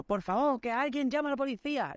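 high, pleading mock cry for help; re-enacted desperate appeal; retold nervous plea. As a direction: call out to bystanders in a panicky high voice. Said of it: "estaba completamente nervioso".

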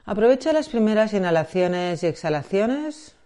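measured meditation guide, long pauses between phrases; guided meditation. Acted. Guide preparing listener for body scan and breathing, guided meditation. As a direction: lead gently into the practice, leaving space.

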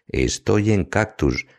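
slow, high-pitched hissed reply; hissing like a snake. A narrator's reading. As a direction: draw the words out, snake-like. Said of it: "silbando como una serpiente".

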